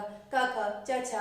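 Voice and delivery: brisk demonstration of letter sounds; quick-fire letters. Shown as a demonstration. Teacher showing students how speedily unvibrated consonants come out, quick-fire. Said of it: "कितना जल्दी, कितना speed से बोले जा रहे हैं".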